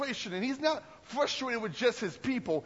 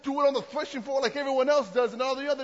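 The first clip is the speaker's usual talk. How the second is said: frustrated Gideon; 3 semitones higher, 3 dB louder than usual. Retold or imitated. Gideon protesting to the angel, loud indignant outburst. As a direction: demand answers from God, loud and hurt. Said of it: "he sits back and says".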